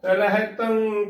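ਰਹਿ ਤੰ drawn out, nasal end with no g; slow "reh-tan" for ਰਹਿ ਤੰ; correct pronunciation. Shown as a demonstration. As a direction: hold the nasal of ਰਹਿ ਤੰ, dropping the g. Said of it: "ਤੰਗ ਨਹੀਂ ਬੋਲਣਾ".

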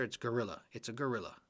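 gorilla with a smooth, untrilled English R. Shown as a demonstration. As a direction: say gorilla softly with no roll on the R. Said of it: "we don't trill the R either".

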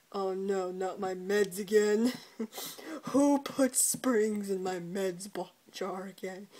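slow, mildly voiced dopey groan; a hint of a confused old dad; lightly voiced groggy old man. Dad moaning to himself about springs in his meds, slow dopey voice. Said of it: "He's just like".

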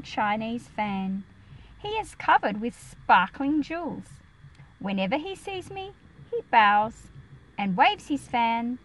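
put-on reading a picture book aloud to children, a touch livelier; story reading. A narrator's reading. Teacher reading Millicent aloud to her class, storytelling voice. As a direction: read the story text to the class with some lift.

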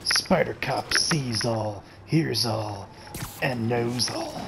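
put-on grizzled old man voice. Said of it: "my grizzled old man voice".

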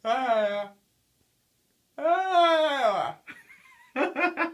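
high, loud yelling; loud shout. Real, not acted. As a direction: yell it out. Loud with blocked ears.

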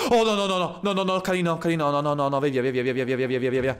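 begging the zombie to go away; panicked pleading. Real, not acted. Zombie grabs him, panicking.

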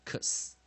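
"X" as a voiceless k-s sound; whisper-like "ks" for "X", no letter name; isolated X sound. Shown as a demonstration. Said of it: "它可以发出".

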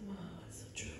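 soft awed whisper; whispered realization. Retold or imitated. Realizing God is right, an awed whisper. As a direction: breathe it out in awe.

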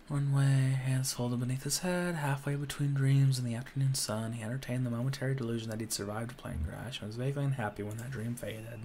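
steady storybook read; story narration. Acted. Reading the game's story text, calm narration. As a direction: read the passage like a novel.

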